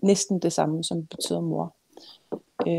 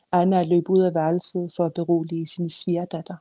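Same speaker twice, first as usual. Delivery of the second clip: measured literary reading; story narration. A narrator's reading. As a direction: read it as a novelist reading her own book. Author reads her novel aloud.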